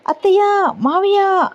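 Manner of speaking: high, sudden cry of fright; frightened shout. Acted. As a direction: call out in alarm for aunt and uncle. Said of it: "భయంతో ఒక్కసారిగా గట్టిగా అరుస్తుంది".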